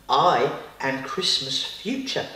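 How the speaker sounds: slow, low solemn spirit voice; slow grand announcement. Acted. Second superpower introducing itself to Peter, slow solemn announcement. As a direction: intone the name like a mysterious spirit.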